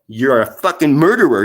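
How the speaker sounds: loud, furious accusation; real anger. Real, not acted. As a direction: hurl it at him in real anger. Angry rant at neighbour.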